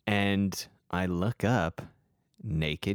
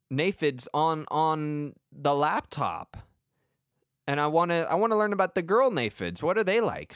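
fake curious kid; 4 semitones higher than usual. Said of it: "I was like".

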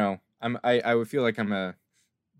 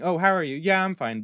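higher, breezy mock pleasantries; perfunctory small talk; 7 semitones higher, 3 dB louder, faster than usual. Imitating people who ask without caring, breezy small talk. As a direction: toss off a routine greeting and reply. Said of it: "they're not asking".

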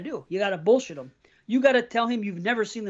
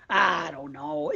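laughing drawn-out reply; 3 semitones higher, 4 dB quieter, much slower than usual. Retold or imitated.

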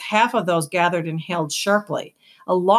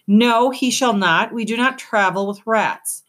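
hoarse with hatred; 5 semitones higher, 4 dB louder than usual. Acted. Luxa refusing to travel with a rat. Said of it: "in a voice hoarse with hatred".

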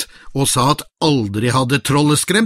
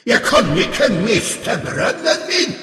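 a troll refusing to lose his well; pleading troll; 2 semitones higher than usual. Acted. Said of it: "sa trollet".

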